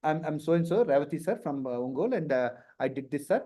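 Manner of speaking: meek student. Retold or imitated. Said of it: "I seen couple of students".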